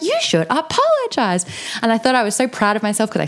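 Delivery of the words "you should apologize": much higher, slow firm demand; bigger retold demand. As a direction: stand tall and demand it. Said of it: "I got even bigger".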